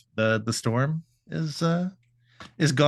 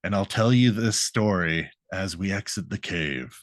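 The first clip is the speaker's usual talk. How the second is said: lightly voiced low, grave hero; storytelling gargoyle; 5 semitones lower, 3 dB quieter than usual. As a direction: drop a little low and solemn. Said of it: "and he's like".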